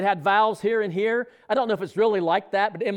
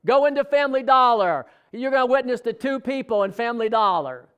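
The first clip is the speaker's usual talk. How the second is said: loud, raised voice of a divine command; Holy Spirit's command; 5 semitones higher, 4 dB louder than usual. Retold or imitated. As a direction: proclaim it high and strong like God speaking. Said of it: "the Holy Spirit told me".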